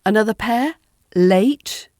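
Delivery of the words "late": late with a clear front L. Shown as a demonstration. Teacher gives another pair, late with a clear L. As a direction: start late with the tongue tip forward. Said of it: "from a clear sound".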